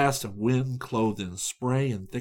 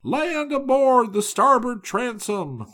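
higher, slow joyful call; glad shout; 12 semitones higher, 5 dB louder, slower than usual. A narrator's reading. Sailor shouts news of land, higher glad call. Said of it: "the glad shout".

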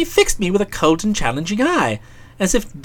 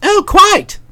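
high breezy "oh, quite"; airy agreement; 12 semitones higher, 3 dB louder than usual. Acted. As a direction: toss it off lightly. Bertie's vague assent.

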